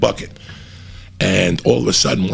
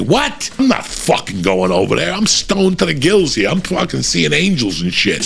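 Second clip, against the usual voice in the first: incredulous high-pitched "what", then protesting; retold stoned protest, pitch jumping up; indignant refusal; 6 semitones higher than usual. Acted indignant refusal to girl.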